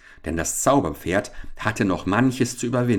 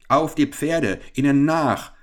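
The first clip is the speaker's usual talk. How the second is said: high, louder barked command; enraged roar; 7 semitones higher, 4 dB louder than usual. Acted. Cheated captain ordering pursuit, raging. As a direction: rouse the men furiously, voice raised. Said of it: "brüllte der Geprellte rasend vor Wut".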